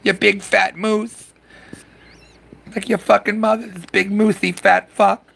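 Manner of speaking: imitating the wife yelling from indoors, high falsetto; mocking nagging wife. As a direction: squeal it like a fed-up wife from inside the house. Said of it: "Missus Foulmouth's inside going".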